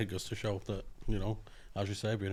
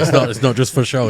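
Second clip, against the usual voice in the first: laughing; 4 semitones higher, 17 dB louder than usual. Real, not acted. Laughing loudly over the others.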